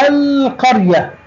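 القرية slowly with a long, clear l; high, slowed demo sounding the l of القرية; moon lam. Shown as a demonstration. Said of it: "لام قمرية". (نطق «القرية» ببطء مع إظهار اللام)

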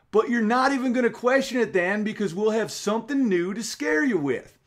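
high, mock Southern salesman pitch; Al Gore impression. Mocking Gore selling scares to naive people, high Southern accent. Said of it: "I'm just doing a generic Southern accent".

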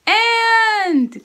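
I called out loud and high; big voice. Shown as a demonstration. Teacher shouting sight words for kids to repeat. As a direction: shout the word out for the class. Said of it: "Big voice".

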